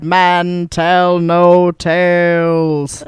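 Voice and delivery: very slow, loud ominous intoning; spooky pirate ride voice. Retold or imitated. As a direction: growl it like a haunted ride warning. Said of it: "From Pirates of the Caribbean".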